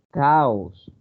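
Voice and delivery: "Caos" said as ca-os, a and o both clearly sounded; two separate vowels. Shown as a demonstration. Teacher showing that two sounds are perceived, split-vowel demo. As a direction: give "Caos" two syllables, falling at the end. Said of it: "Son dos sonidos los que se perciben".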